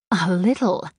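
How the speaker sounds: playful, teasing question on "little"; a light, coy tease. A narrator's reading. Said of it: "I teased".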